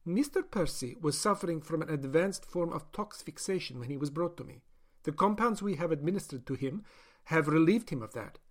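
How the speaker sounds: a doctor justifying her experiment; doctor's voice. Acted. Doctor explains clinically.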